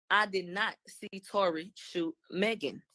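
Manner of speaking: slow, word-by-word retelling; retold deliberate denial. Witness denying she saw the shooting, slow and deliberate. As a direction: space out each word of the quoted denial.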